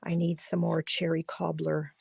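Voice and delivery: barely any voice left, whispering through it; worn-out whispering voice; losing voice. Real, not acted. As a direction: voice giving out to a whisper. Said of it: "I'm losing my voice".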